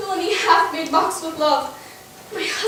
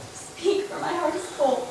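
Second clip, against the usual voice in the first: choked up; 9 dB quieter than usual. Acted. Emilia overcome.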